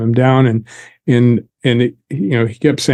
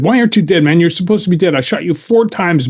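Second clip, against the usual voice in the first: higher, agitated disbelief; 5 semitones higher than usual. Retold or imitated. Gunman jumping up again at his living victim, higher agitated disbelief. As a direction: retell him jumping up, pitched up and rattled.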